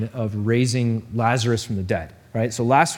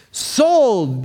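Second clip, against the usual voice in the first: higher, louder call; auctioneer yelling; 8 semitones higher, 3 dB louder than usual. Acted. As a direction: bang the gavel. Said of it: "the auctioneer yells".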